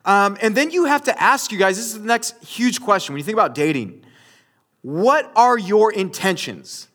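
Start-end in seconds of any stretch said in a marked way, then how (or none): 4.8-6.9 slow, deliberate hint of a dad; stern dad. Speaker quizzing young daters, like a questioning dad. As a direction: ask it slowly, weighing each word. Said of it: "I sound like your dad".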